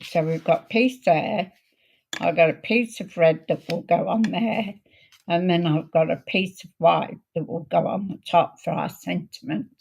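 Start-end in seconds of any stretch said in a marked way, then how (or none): 2.2-9.7 hoarse, croaky throat. Real, not acted. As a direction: speak through a croaky throat. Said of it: "croaky voice, haven't I?".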